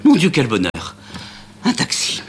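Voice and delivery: éclat aigu et fort de ravissement; s'exclamer, ravie de voir enfin un taxi; cri de joie. Acted. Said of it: "pousse un cri de joie". (Amanda découvre le taxi et crie de joie, voix plus aiguë)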